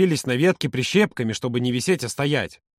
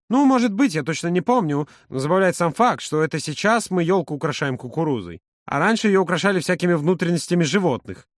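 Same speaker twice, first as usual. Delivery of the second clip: lightly voiced Yura, amused; 2 semitones higher than usual. Yura muses to Volodya about decorating with corn, mildly amused. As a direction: muse aloud with mild amusement.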